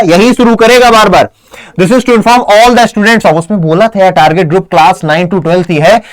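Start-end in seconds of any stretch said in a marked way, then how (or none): 1.8-3.4 slow dictation. Shown as a demonstration. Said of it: "मैंने क्या बोला".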